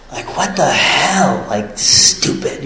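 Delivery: slow, muttered grumble, the last word breathed; grumbling to himself at the early arrivals; annoyed grumble. Retold or imitated. Mild mock annoyance, slow mutter. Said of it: "I'm just angry".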